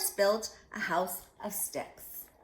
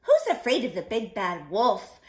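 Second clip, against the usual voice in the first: chuckling pig; 2 semitones higher, 7 dB louder than usual. Acted. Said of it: "chuckled Horace".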